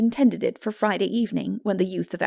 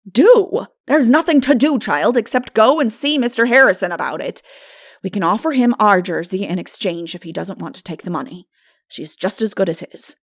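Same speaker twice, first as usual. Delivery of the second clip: louder, brisk, no-nonsense; firm older woman; 8 dB louder than usual. Acted. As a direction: take charge of the mess. Marilla firm.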